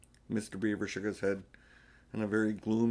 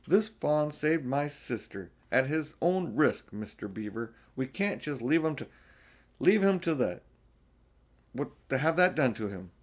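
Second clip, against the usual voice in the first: put-on earnest boy; 4 semitones higher, 3 dB louder than usual. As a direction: beg the beaver to help. Child's earnest plea.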